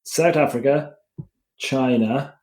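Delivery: deliberate roll-call for listeners, a gap after each name; slow listing. Real, not acted. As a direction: list them one at a time with pauses. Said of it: "I'm gonna list them slowly".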